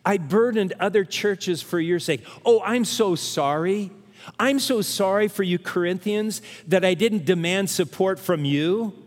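mock-sorry Paul, dripping with irony; fake-contrite Paul telling the Corinthians sorry; sarcastic apology. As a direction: play Paul's apology as pure sarcasm. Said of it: "You see, it's sarcasm".

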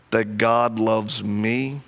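slow, low, earnest admission; slow, halting confession of doubt; slow and sincere. Real, not acted. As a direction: let each word land slowly, heavy with doubt. His own slow struggle to believe.

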